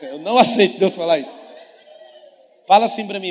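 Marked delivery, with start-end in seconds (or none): 0.0-1.5 imitação rindo, bem alta; imitando o noivo. Retold or imitated. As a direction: imita o rapaz em pânico, entre risos. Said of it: "Ele fez assim". (pregador imita o noivo negando a Deus, rindo alto)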